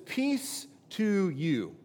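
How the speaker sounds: slow, gentle greeting in a lightly voiced Jesus; calm Jesus. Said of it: "he says".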